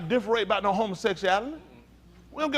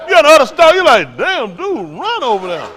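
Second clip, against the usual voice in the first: mock alarmed warning; 6 semitones higher, 11 dB louder than usual. Acted warning to run.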